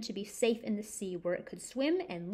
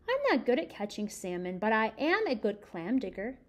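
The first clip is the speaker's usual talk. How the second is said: put-on lively read-aloud to children; story reading. A narrator's reading. Reading a picture book to kids.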